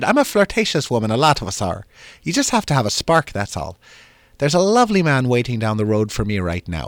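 lightly hammed-up Irish brogue; bad Irish accent, lilting up and down; terrible Irish accent. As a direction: play a flirtatious Irishwoman with a fake brogue. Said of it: "That's my terrible Irish accent".

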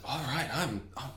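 high, drawn-out complaint; hungry crew member. Acted. Crew member to the captain, high exaggerated hungry complaint. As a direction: stretch out the hunger in a high voice.

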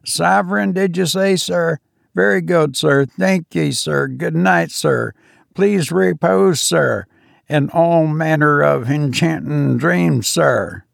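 a steward thanking the passenger for the sovereign, pleased; high delighted steward. Acted.

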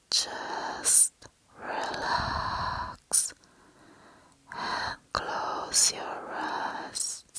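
slow whispered guided relaxation; ASMR whisper. Acted. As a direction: whisper them calmly into relaxing.

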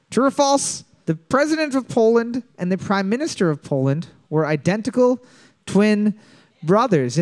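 repeated slowly with pauses before twin and brothers. Shown as a demonstration. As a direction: let "twin" and "brothers" land after pauses. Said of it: "Question number four".

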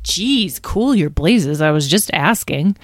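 drawn-out, swooping mild indignation; put-out retort. Acted. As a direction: back off, a little affronted. Rebuffed character backs off.

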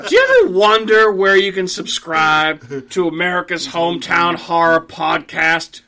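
slow, grumpy commentator plug; Andy Rooney impression. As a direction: drawl the ad like an old essayist. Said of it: "Andrew can be like".

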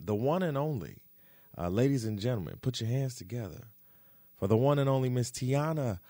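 big hype-man intro, building up; grand entrance announcement. Acted. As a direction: announce her like a star on stage. Introducing guest to audience.

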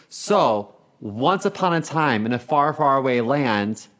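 slow once-upon-a-time storytelling; fairy tale style. Pretend. Guest telling story on request, mock fairy-tale narration. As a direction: draw it out like a storybook opening. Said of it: "Add some fucking fairy tale style into it".

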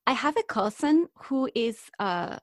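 botched attempt at a Spanish accent. Shown as a demonstration. Telling of a cousin, botched Spanish accent. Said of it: "I'm screwing this up now".

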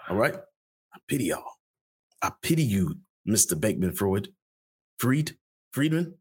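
Mister T impression. Doing Mister T for the podcast audience, scolding in a hammed-up voice. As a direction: lecture them like Mister T. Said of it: "I can do Mister T right now".

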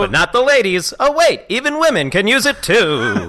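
1940s newsreel announcer. Acted. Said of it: "Nineteen forties documentary news announcer".

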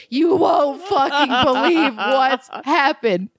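high, laughing disbelief; breathless hysterics while breaking the news; acting out hysterical laughter on a call; hysterical retelling. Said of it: "And I'm hysterical".

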